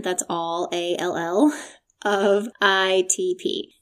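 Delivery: New York vowels on All, slow; New York accent. Shown as a demonstration. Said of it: "in my New York accent".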